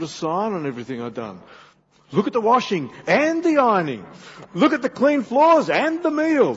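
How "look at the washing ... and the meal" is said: high, loud mock bragging; showy boasting. Husband showing off housework to his wife, loud hammed-up boasting. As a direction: proclaim chores like grand achievements, voice raised high.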